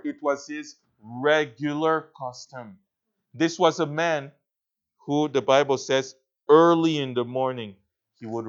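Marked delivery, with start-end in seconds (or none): 1.0-2.8 "regular" set apart and given deliberate weight; stress on regular. Real, not acted. Preacher repeating Job's habit for emphasis, stressing "regular". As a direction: lean on the word "regular". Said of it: "I wanna emphasize that word".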